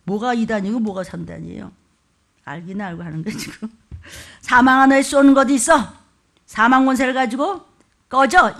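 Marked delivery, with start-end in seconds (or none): 4.4-8.5 mock taunt. Shown as a demonstration. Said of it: "이게요".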